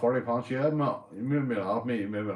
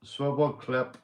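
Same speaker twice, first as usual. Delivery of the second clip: laughing; 5 semitones higher, 6 dB louder, slower than usual. Real, not acted. Laughing at a chat comment.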